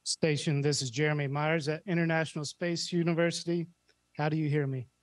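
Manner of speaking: thin radio link voice; sci fi communicator. Real, not acted. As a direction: speak as over a long-distance radio. Ground calls station over radio.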